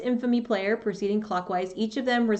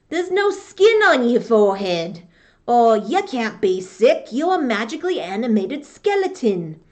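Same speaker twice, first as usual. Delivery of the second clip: mocking crew quote; 6 dB louder than usual. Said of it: "my pirate voice".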